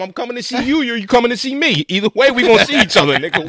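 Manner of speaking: high-pitched, hammed-up indignation; mock confrontation. Furious actor confronting the crew over a moved seat, mock outrage. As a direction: play at being outraged, pitch climbing high.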